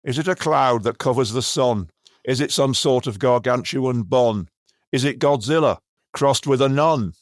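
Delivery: attempted performance-poet voice; John Cooper Clarke. Comedian reading a spoof poem in another poet's voice, declaimed. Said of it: "I'll try and do the voice".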